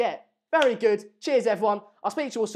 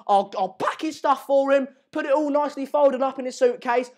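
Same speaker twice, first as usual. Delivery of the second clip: high, loud gleeful rush; excited rant; 4 semitones higher, 5 dB louder than usual. Real, not acted. Fan glad to see a player go, louder excited rant. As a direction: gush with delight at getting rid of him. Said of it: "I got a bit excited there".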